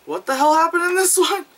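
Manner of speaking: high, laughing through the question. Real, not acted. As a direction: laugh in baffled disbelief. Laughs at a confusing short.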